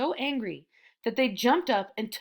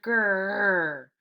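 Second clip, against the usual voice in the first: growl. A narrator's reading. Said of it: "the tigers only answered".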